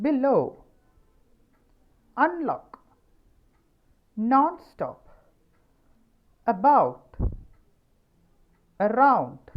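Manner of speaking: each word's stressed syllable high and loud; stressed drill words. Shown as a demonstration. Teacher running through the list, stressing each root. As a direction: punch the root syllable every time. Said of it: "I hope it is clear".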